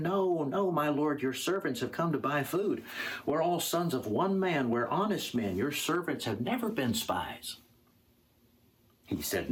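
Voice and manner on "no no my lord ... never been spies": higher-pitched, earnest denial; earnest protest. Acted. Brothers answer the lord who accuses them of spying, protesting. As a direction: plead innocence in a raised pitch.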